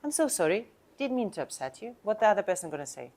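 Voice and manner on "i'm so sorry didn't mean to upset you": calm apology. Shown as a demonstration. Agent showing the right, calm way to say sorry. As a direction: apologize simply without gushing.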